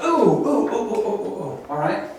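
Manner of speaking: Ooh said as a sharp, tight oo, climbing high then falling; sharp U sounds. Shown as a demonstration. Teacher demonstrating the sharp U vowel to students. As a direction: show the sharp U by drawing out Ooh. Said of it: "Both of them are really sharp".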